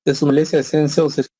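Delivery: breaking up, bad connection audio; choppy audio. Real, not acted. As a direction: audio cutting in and out over bad internet. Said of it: "se les escucha entrecortado".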